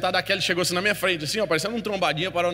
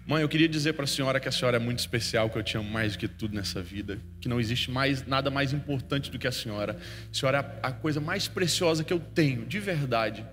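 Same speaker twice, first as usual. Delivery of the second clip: tender declaration; 3 semitones lower than usual. Shown as a demonstration. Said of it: "chega pro seu pai, pra sua mãe e diga isso aqui".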